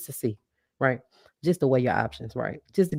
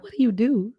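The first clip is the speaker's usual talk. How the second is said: mimicking her question; 10 semitones higher than usual. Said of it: "she was like".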